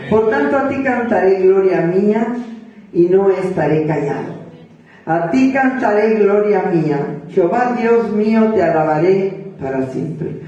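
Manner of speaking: steady, solemn reciting of scripture; psalm recitation. Acted. Preacher recites a psalm to the congregation, solemn. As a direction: proclaim it like a psalm.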